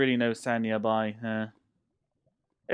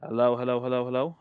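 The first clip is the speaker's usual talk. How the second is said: mic check; 4 dB louder, faster than usual. Real, not acted. Mic check after quiet complaint.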